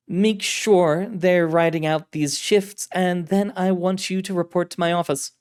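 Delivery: high, loud, commanding voice; authoritative director. Acted. Director orders agent over the communicator, high, authoritative voice. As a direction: state your rank and take charge.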